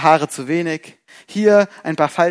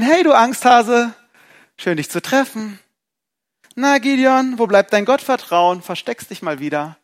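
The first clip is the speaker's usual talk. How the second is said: mocking rebuke; 5 semitones higher than usual. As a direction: needle him like a scornful visitor. Imagined mocking angel.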